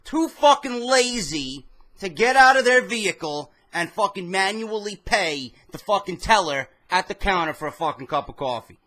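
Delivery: rising mock outrage at the drive-thru line; mock rant. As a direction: scoff at the lazy drive-thru crowd. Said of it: "I'm like".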